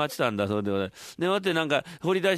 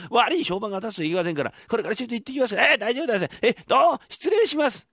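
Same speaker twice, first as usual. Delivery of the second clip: higher, fluent congratulatory speech; butter up the landlord; smooth flattering tenant; 4 semitones higher than usual. Acted. てっつぁんが大家にお祝いの口上を述べる、調子のいい声. Tetsu politely takes leave.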